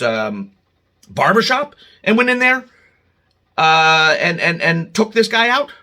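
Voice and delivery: ranting viewer-facing anger; angry. Real, not acted. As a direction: vent the outrage as it builds. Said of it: "Sorry I got angry about it".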